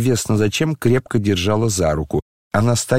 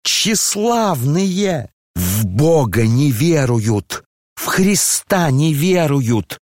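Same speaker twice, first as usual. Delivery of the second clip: a higher, scolding general's wife; angry elderly lady; 6 semitones higher than usual. Acted. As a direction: berate the room, voice raised in indignation. Lizaveta's tirade at guests. (разгневанная генеральша, голос выше)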